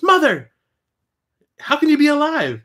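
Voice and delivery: high, pleading daughter's cry; a stunned girl seeing her dead mother; Kitana's shocked plea. Retold or imitated. Kitana calling to her mother, high shocked voice. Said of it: "Kitana looks at her and goes".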